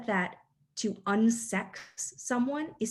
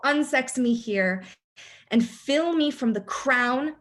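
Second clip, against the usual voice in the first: louder, commanding queenly invocation; 4 semitones higher, 5 dB louder than usual. Acted. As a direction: call on the spirits with authority. Teacher reciting the incantation line again.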